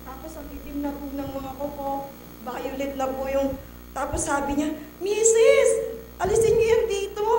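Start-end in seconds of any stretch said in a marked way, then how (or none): 5.0-7.3 higher, louder order as the doctor; doctor ordering the mother out, raised; raised command. Retold or imitated. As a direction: tell her firmly to take it away. Doctor orders body removed.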